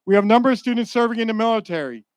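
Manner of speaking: "serving" stressed, loud and quick line. Real, not acted. Speaker honoring students entering the military, stress on "serving". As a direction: lean on the word "serving". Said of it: "I emphasize the word serving".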